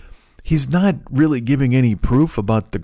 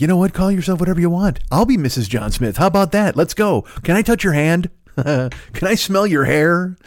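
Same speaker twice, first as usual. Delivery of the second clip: eager, higher mock-smitten voice; smitten incel; 6 semitones higher than usual. Man caught by a woman's wink, gushing high and eager. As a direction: gush like a lovestruck loser. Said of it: "you'd just be like".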